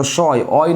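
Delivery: "শয়" then its ending "অয়" on its own; teacher demonstrating the "অয়" in "শয়"; sounded-out syllables. Shown as a demonstration. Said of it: "শয়ের উচ্চারণ করো".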